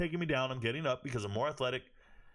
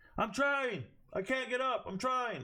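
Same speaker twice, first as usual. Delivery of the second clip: very high, drawn-out shouted yell; 11 semitones higher than usual. Retelling how a fighter yelled back at his corner: imitating someone yelling. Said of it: "and he yelled back".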